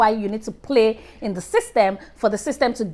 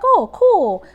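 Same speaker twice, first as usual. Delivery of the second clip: a much higher, louder "oh cool"; mock excited customer; 9 semitones higher, 4 dB louder than usual. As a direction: play the pleased shopper. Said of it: "You're like".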